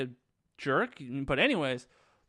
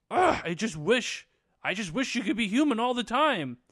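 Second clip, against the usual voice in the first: exasperated wishing; 7 semitones higher, 4 dB louder than usual. Retold or imitated. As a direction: whine the wish in a high voice. Upset Lisa's wish acted out.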